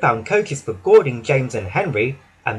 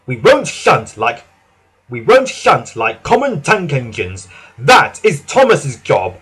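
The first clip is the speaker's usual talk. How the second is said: defiant engine; 5 dB louder than usual. Acted. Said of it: "said Gordon".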